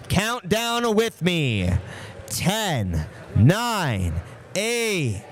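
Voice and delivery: excited race countdown, high and drawn out; high-pitched commentator's crowd-rousing yell. Real, not acted. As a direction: yell it out like an announcer at the finish. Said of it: "Sorry to the chat for yelling".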